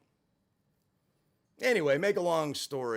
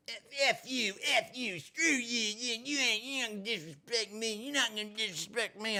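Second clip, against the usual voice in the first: mocking angry woman; 7 semitones higher than usual. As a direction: mimic her outburst, high and sneering. Voicing the woman's angry retort.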